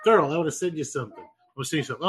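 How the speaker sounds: mild mock excitement, easing back down; retold excitement. People offering to send the speaker something, mildly mimicked excitement. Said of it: "so many people be s-, excited".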